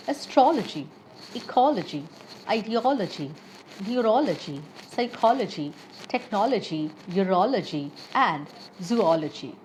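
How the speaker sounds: astrology, ecology, psychology, zoology with the "ol" syllable stressed. Shown as a demonstration. Teacher giving learners examples of the ology rule, stressing "ol" from "astrology" to "zoology". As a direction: punch OL in each word: asTROLogy, eCOLogy, techNOLogy. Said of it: "stress is placed on the syllable where all appears".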